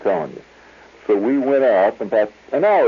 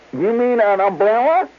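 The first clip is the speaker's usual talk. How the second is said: high, louder put-on woman's voice; baffled clerk; 4 dB louder than usual. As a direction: push it up into her voice in disbelief.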